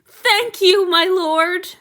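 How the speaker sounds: high, loud and tearful; tearful thanks. Acted. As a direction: thank him through relieved tears. Han Yu crying with relief.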